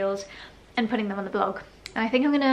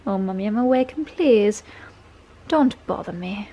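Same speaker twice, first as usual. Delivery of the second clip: dog's voice. Pretend. Voices the sleepy dog's reply.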